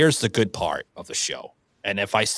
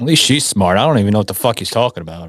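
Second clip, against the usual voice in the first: laughing tease; 3 semitones lower, 6 dB louder, faster than usual. Real, not acted. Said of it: "laughing teasing".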